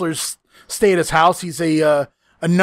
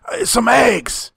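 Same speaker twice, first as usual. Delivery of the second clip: lightly mimicked slow, higher drawn-out voice; Tommy; 4 semitones higher, slower than usual. Friend quoting the wrestler's mumbled order, light slow mimicry. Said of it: "Tommy, it's just your voice".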